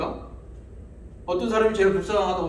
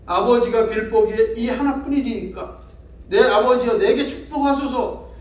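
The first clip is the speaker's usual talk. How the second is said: crying out loud; 2 semitones higher, 3 dB louder than usual. Acted. Esau cries out to his father for a blessing, wailing. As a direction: voice climbs louder, a pleading wail. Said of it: "하고 소리를 높여 우니".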